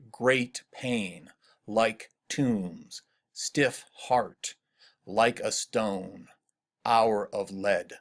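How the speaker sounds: slow, separated phrases with even weight on "stiff heart" and "Great pain"; measured poetic reading, each phrase falling to a pause; rhythmic phrases. Shown as a demonstration. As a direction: set each phrase apart, drawing out "like a stone" and "hour of lead". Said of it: "leap out to my ear".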